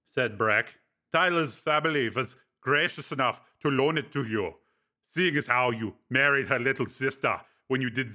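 Breck, teasing friend. Acted. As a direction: needle him with dry amusement. Breck explaining.

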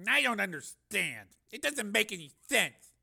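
baffled. A narrator's reading. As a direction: puzzle over it out loud. Baffled technician, trace makes no sense.

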